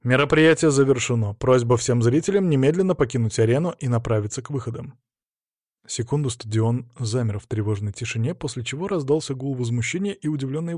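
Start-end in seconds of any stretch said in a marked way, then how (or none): 0.0-5.0 cold announcer voice. Acted. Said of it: "холодный, бесстрастный голос".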